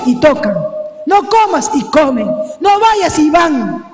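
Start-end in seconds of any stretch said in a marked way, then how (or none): 1.0-1.7 stern parent. Retold or imitated. Parent's commands, acted. 2.6-3.2 stern parent. Retold or imitated. Parent's commands, acted.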